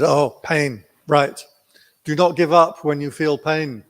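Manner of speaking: a hint of the stern Burmese teacher. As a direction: tell him firmly not to give up. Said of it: "He said".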